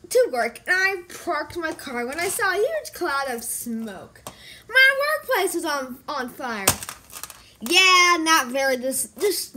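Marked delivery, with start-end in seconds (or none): 4.7-6.7 mock alarm. Spotting the workplace fire, mock alarm. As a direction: call out the fire, then tail off.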